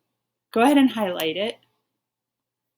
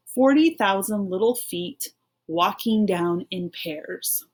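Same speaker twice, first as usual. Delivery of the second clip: slow, even read-along pace. Shown as a demonstration. Teacher reading along with pupils, slow and even. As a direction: read slowly so they can follow. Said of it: "So let's read just these two lines".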